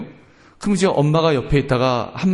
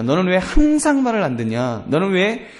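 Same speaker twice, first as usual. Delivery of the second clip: mild mock parental nagging; acted reproach of a disobedient child; exaggerated scolding; 3 semitones higher than usual. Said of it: "그 말을 과장하는 겁니다".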